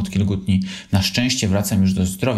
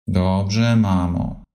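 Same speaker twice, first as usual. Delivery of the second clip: meek; much slower than usual. Acted. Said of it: "odpowiedział potulnie Lisek".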